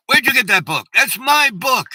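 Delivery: high, loud, startled cry of ownership; shocked outburst. Retold or imitated. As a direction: blurt it out, stunned, claiming the book back. Woman shocked, claiming her book.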